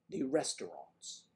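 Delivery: slow, exaggerated Midwestern accent; Chicago-style Midwest accent, hammed up. Shown as a demonstration. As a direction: draw it out in a caricatured Midwest accent. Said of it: "characterization of a Midwest accent".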